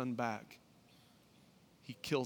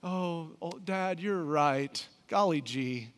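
put-on wholesome 1950s kid; slower than usual. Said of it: "cue the music".

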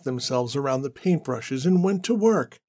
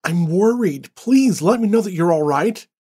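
anxious plea rising higher and louder; worried pleading; 4 semitones higher, 5 dB louder than usual. Acted. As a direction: beg him down the phone, voice climbing with worry. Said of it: "as she pleaded with David".

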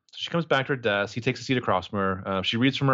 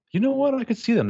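mock swooning fan; 12 semitones higher than usual. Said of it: "I think to myself".

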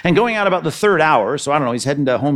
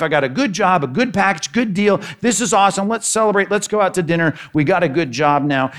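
excited announcement; 4 semitones higher than usual. Acted. Husband tells wife about job.

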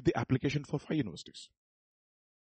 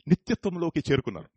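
switch to Telugu; 4 semitones higher, 5 dB louder, much faster than usual. Shown as a demonstration. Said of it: "It sounds very nice in Telugu".

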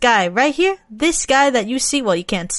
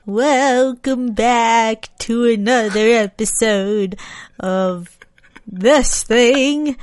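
lightly voiced hissing vampire; Dracula voice; slower than usual. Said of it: "spooky vampire voice? Dracula voice?".

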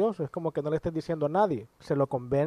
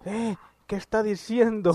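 higher-pitched startled protest; mock alarm; 6 semitones higher than usual. Tomaso reacting to the Pope's disbelief in God, mock alarmed. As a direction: act out a scandalized, frightened reaction. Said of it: "Tomaso se asusta todo y le dice".

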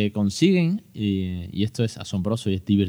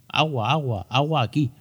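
lightly voiced toddler, higher and insistent; toddler asking for water; 4 semitones higher than usual. Father imitating his toddler son, a touch higher and insistent. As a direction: play the little boy demanding his water. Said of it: "en nuestro caso dicen mucho".

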